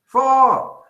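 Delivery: high, loud echo of the big reveal; announcer shout. Pretend. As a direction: call the score out like a result. Repeats the winning score as announcer.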